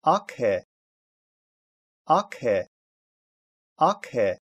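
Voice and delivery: "аке" with a voiceless, puffed "к"; read as "аке". Shown as a demonstration. Teacher reading out a letter combination, "аке" with voiceless "к". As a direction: say "аке" in two distinct syllables. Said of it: "читается".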